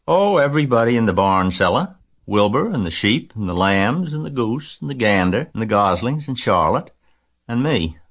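put-on young Fern, chatty. A narrator's reading. Girl lists barn friends for her parents, lightly voiced eagerness. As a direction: rattle off the list with girlish enthusiasm.

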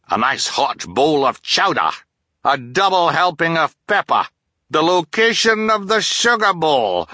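high, loud gloating with a hearty laugh; captain crowing over chowder and the sugar bowl; gleeful blustering captain. A narrator's reading. Captain gloating to the Baudelaires over dinner, laughing loudly.

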